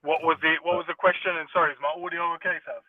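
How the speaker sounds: underwater. Real, not acted. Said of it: "It sounds like you're underwater".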